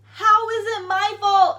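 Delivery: loud, slow, stressing "How is it my fault". Retold or imitated. The teacher repeating her point, slow and indignant. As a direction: drag it out, indignant. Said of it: "She's like".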